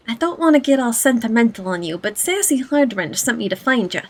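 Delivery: lightly voiced streetwise goblin; a hint of goblin in the voice. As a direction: read it as a chummy old goblin acquaintance. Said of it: "my best goblin voice".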